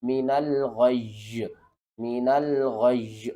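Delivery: drawn-out, very slow tajweed reading; slow recitation. Shown as a demonstration. Teacher demonstrating to students, very slow recitation. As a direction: stretch each sound out slowly to demonstrate. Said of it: "تو کس طرح پڑھیں گے؟".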